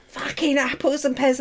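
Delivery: lightly voiced Cockney slang; Ben's mock Cockney. Co-host's supposed message to her, mock Cockney accent. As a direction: imitate a Cockney with relish. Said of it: "I'm sure Ben talks like that".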